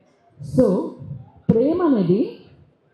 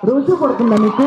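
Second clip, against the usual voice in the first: surprised shout; 5 dB louder than usual. Real, not acted. Anchor reacts in disbelief.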